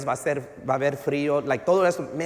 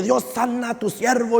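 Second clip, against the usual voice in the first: higher, imitated public prayer; mild mock shouted prayer; 5 semitones higher than usual. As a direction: pray out in a slightly raised voice.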